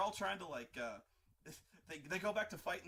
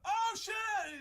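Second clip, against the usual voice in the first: sudden high yelp of alarm, much louder; panicked shout; 10 dB louder than usual. Retold or imitated. Sith caught by surprise flamethrowers, panicked high shout. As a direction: cry out as the fire hits.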